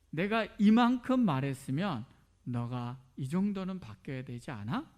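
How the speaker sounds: exasperated parent voice pushing harder each question; demanding. Retold or imitated. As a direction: scold a child who falls short, insistently. Voicing his inner demanding frame.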